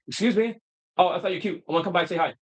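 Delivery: imitating a rushed, choppy pickup line; choppy, fast talking. Coach acts out a stressed man approaching women, choppy and hurried. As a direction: act out a hurried approach to a woman. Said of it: "because you're talking very fast".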